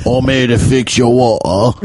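lightly voiced British workman; mock British accent. Host playing plumber, mock British accent. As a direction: announce it as a Brit. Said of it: "do a British accent".

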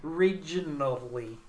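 slow mock-drunk imitation; Joe Namath. Teasing co-host's slip, slow imitation of drunk speech. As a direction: stretch REGIONALLY out, lightly tipsy. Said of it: "You did a Joe Namath".

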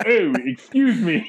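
slow, lightly voiced lumberjack. Lumberjack walking in on people doing something, lightly imitated. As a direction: imitate a lumberjack with a drawn-out ooh. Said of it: "maybe a lumberjack walked in".

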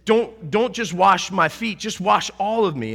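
eager Peter pleading with Jesus. Acted. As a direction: beg him to wash everything. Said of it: "he says".

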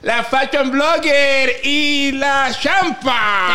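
shouted intro. Acted. Introducing cast over music.

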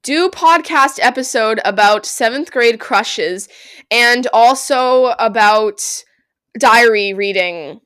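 slow, deliberate dictation to a phone; dictating. Real, not acted. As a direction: dictate word by word, drawn out. Dictating a text to phone assistant.

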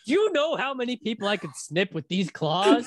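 high, laughing crab menace; gleeful crab villain. Pretend. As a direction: cackle it like a crab with claws. Playing a snipping crab.

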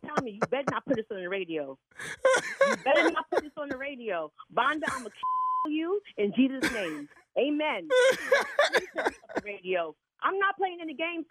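high, laughing begging not to air it; laughing plea. Real, not acted. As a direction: plead while laughing.

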